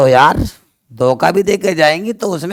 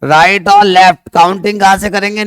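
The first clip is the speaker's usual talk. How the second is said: forced loud; 3 semitones higher, 4 dB louder than usual. Real, not acted. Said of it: "जोर लगा के बोलना पड़ता है".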